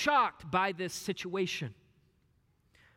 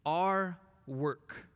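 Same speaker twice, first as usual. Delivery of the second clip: whispered. Acted. Whispered opening of climax.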